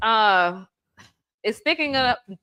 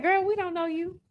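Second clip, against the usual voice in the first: high mock dismissive voice; sassy brush-off in a higher voice; mock company rep; 9 semitones higher, 4 dB quieter than usual. Company snubbing her seasoning request, high sassy brush-off. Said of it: "They're like".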